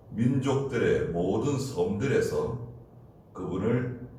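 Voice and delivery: measured, solemn Bible reading; scripture reading. Acted. Pastor reading scripture to the congregation, solemn. Reads Zephaniah passage aloud.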